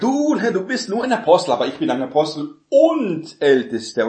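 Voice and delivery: lightly hammed-up vain apostle, puffing himself up; mock boasting. Boastful apostle showing off to the others, mock bragging. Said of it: "gegen die anderen gebrüstet und sagt".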